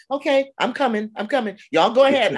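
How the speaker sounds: a great grandmother gamely hurrying along; playful eager reply. Retold or imitated. Great grandmother answering young protesters, high playful call. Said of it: "And I'm like".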